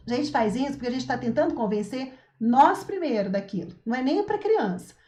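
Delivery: normal talking voice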